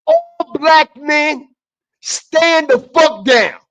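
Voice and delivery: "All black men" drawn out very slowly, then "fuck" punched; slowed-down, weighted command to stand down; slow emphatic repeat. Shown as a demonstration. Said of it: "I'm gonna say it again".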